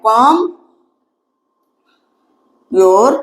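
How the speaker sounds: words spaced far apart, slow; slow dictation, comb with a silent b. Shown as a demonstration. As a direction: dictate it one word at a time. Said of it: "इसको कॉम्ब नहीं पढ़ेंगे".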